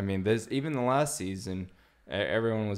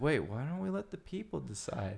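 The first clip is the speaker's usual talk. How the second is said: higher-pitched mock-naive proposal; pitched-up quote of a hopeful suggestion; earnest suggestion, imitated; 6 semitones higher, 3 dB quieter than usual. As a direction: imitate someone piping up with an idea. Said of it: "stands up and he's like".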